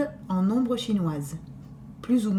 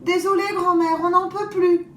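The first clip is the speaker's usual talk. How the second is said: mock-tired girls; 8 semitones higher, 4 dB louder than usual. Girls feign exhaustion.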